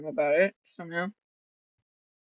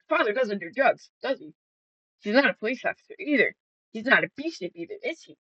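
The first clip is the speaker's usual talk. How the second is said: rapid accusations; 4 semitones higher, faster than usual. Retold or imitated. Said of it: "And I said".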